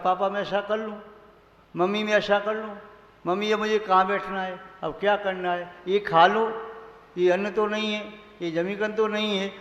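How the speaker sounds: mild imitation of a child checking each step; asking child. A child asks papa and mummy before doing things, lightly imitated. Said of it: "घर में भी बालक पूछता है".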